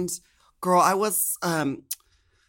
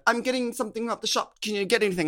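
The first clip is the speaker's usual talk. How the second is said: put-on British accent; 6 semitones higher, faster than usual. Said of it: "in a British accent".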